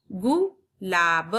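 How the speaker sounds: गुलाब split slowly; slow syllable split. Shown as a demonstration. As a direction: sound out गुलाब part by part. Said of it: "जल्दी होता है". (गुलाब को धीरे धीरे तोड़कर)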